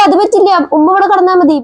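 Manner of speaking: daughter-in-law voice. Acted. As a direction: push back firmly on the sleeping plan. Young wife arguing about beds.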